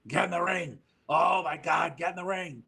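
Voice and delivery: high-pitched impatient retelling; urgent imitation. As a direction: imitate someone desperate to get going. Sabu hurrying wrestler in retold story.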